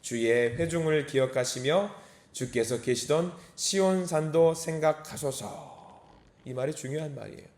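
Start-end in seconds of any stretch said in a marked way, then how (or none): 0.0-6.0 slow, measured verse reading; scripture reading. Real, not acted. Preacher reads the psalm to the congregation, slow scripture reading. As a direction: read the verse aloud, drawing out the ending.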